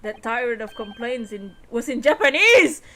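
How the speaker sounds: lightly voiced bewildered young lawyer; puzzled lawyer character.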